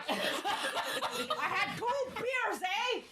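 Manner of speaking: slow Canadian drawl, eh; Canadian drunk. Retold or imitated.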